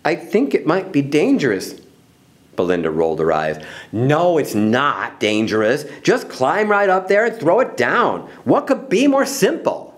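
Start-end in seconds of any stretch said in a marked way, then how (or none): 0.0-1.8 mildly timid objection; understated meekness; meek. Acted. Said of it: "said Ella meekly". 3.9-9.9 scoff, then goad with rising pitch. Acted. Bully scoffs, eye roll.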